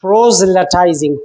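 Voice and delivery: "proselytizing" said slowly, syllable by syllable; teacher sounding out "proselytizing" slowly; slow careful pronunciation. Shown as a demonstration. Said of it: "this is a little bit difficult word".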